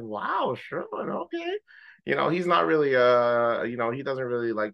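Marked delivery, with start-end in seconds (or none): 0.0-1.5 much higher, squeaky amazement; mock impressed. Friend hearing the groom's good vows, high mock surprise. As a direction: gasp it like you can't believe it. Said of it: "I'm like".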